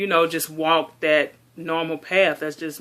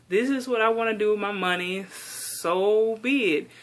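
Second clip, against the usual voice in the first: defiant; 4 semitones higher than usual. Retold or imitated. Retold defiant reply to critics.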